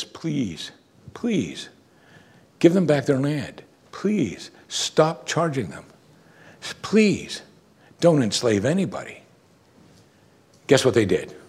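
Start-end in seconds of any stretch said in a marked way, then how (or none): 0.0-9.2 pleading. Retold or imitated. Nehemiah begging the wealthy Jews, gentle higher pleading. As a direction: beg them gently, rising each time. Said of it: "Then twice he says".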